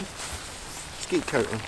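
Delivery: slow whispered coaxing; whispering. Real, not acted. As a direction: whisper it gently, slowly.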